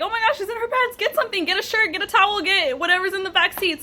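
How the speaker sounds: high-pitched, tumbling imitation of panic; retold frantic husband. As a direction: rattle off orders as the frantic husband.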